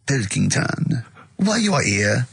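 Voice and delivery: hint of a French accent for the emperor. Presenter voicing Nero with a faint French accent. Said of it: "I don't know why he's French".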